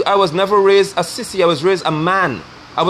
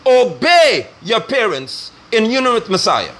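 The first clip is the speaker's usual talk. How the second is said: reading scripture; slower than usual. Acted. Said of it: "So the scripture says".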